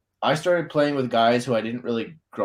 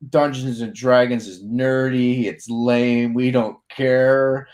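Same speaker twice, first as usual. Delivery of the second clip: slow, dismissive put-down; mocking friends; 5 dB louder, much slower than usual. Old friends scoffing at D&D, slow and dismissive. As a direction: drag it out like you couldn't care less. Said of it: "they're all like".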